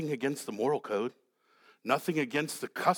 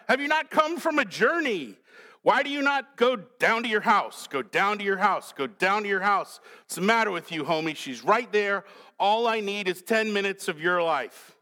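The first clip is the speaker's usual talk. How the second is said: David pleading; 4 semitones higher, 3 dB louder than usual. Acted. Preacher voicing David urging Uriah.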